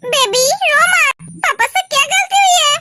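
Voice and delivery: put-on drawn-out, gentle coaxing of a baby; acted hushing of a crying baby; soothing father. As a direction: slowly plead with a baby to stop crying.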